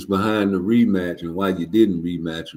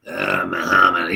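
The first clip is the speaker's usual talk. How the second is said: lightly voiced promoter gushing; a hint of the promoter fawning; mocking Bob Arum; 4 dB louder than usual. Mimicking the promoter to the audience, lightly voiced. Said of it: "Bob Arum talking about".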